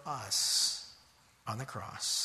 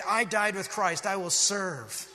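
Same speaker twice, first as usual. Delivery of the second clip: louder, resolute vow; firm declaration; 3 semitones higher, 4 dB louder than usual. Shown as a demonstration. Treated unfairly at work, declaring it firmly and aloud. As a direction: say it with full conviction. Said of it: "you say".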